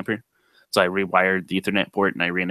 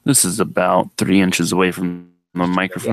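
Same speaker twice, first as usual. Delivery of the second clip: close to the mic. Shown as a demonstration. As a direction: lean right into the microphone. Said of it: "go up to about three inches and speak".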